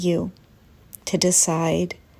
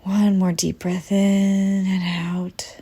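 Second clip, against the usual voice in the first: guided breathing. Acted. Leads a breath in meditation.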